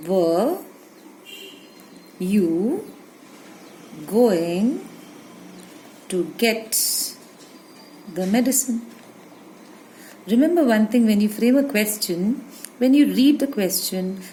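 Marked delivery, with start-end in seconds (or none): 0.1-8.8 each word alone, with long pauses; slow spaced-out classroom dictation. Shown as a demonstration. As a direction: dictate slowly so students can write. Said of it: "dictating word by word".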